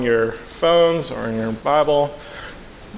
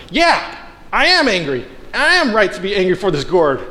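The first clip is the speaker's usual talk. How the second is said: put-on a petulant, defiant kid insisting he's right, pitched up; childish Jonah; 4 semitones higher than usual. Preacher playing Jonah answering God like a stubborn child, higher pitched. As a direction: stamp your foot like a sulking child. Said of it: "It's like a child".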